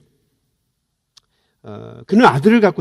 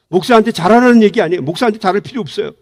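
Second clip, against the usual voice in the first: fast, light disclaimer; fast quip; quick aside; 4 semitones higher, faster than usual. Real, not acted. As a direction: brush it off quickly. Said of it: "quick disclaimer aside".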